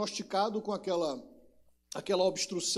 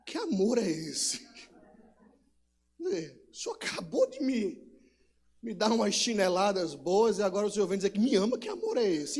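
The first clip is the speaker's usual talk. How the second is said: put-on confused child. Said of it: "aquela confusão".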